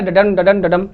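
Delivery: "डडम" chanted with the stress on the second syllable, dum; da-DUM beat. Shown as a demonstration. Teacher chanting the iambic beat for students to memorise, rhythmic stress. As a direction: tap out "डडम डडम डडम" as an iambic beat, weak then strong. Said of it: "याद करने का तरीका क्या है".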